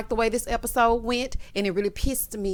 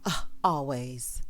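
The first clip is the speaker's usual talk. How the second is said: dismissive mock Kyle; 7 semitones lower, 3 dB quieter, slower than usual. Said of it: "Here go Kyle".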